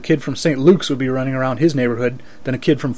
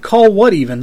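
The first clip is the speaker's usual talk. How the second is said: indignant protest; 6 semitones higher, 5 dB louder than usual. Acted. Narrator protests indignantly to Buddha.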